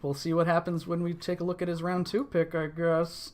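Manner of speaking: talking out of the mouth corner. Real, not acted. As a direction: speak out of the side of the mouth. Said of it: "You sound very suspicious there".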